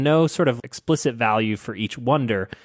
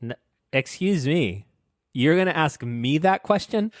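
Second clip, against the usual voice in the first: mock offended; 4 semitones higher than usual. Mock offence at being doubted on Bible.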